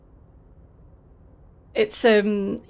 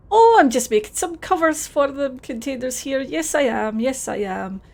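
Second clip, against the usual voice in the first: put-on Scottish accent, friendly and a bit overdone; terrible Scottish accent; 2 semitones higher than usual. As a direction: play it as a cheery Scottish lad in a Scottish accent. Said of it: "please enjoy my terrible Scottish accent".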